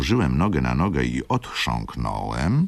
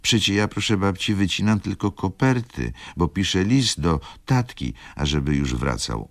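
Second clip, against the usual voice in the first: put-on higher childlike voice; little girl; 6 semitones higher than usual. Little girl telling her grandma about the letter, higher. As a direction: speak up like a small girl explaining.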